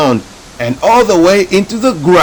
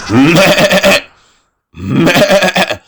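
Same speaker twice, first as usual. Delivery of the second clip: goat bleats; 3 semitones higher than usual. Acted. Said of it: "said the goat".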